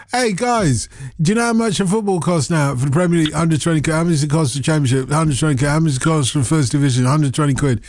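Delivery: quick, sing-song question and answer; mock conversation. Host replaying the dull football-price exchange, mocking. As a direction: rattle off a tediously repetitive exchange. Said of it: "That was an interesting conversation".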